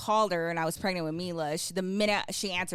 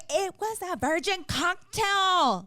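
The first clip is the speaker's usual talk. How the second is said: retold defensive reply; 9 semitones higher, 4 dB louder, slower than usual. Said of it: "And I was like".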